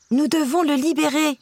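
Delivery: high squeaky little mouse voice; squeaking mouse. A narrator's reading. Mouse Jack urges Cinderella to free the prisoner, high squeak. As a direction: squeak it out urgently. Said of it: "couina-t-il".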